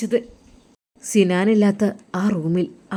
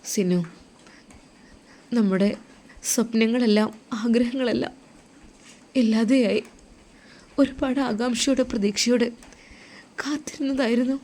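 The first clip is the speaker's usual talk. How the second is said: grieving wife; 4 semitones higher than usual. Acted. Wife tells husband of lost hopes.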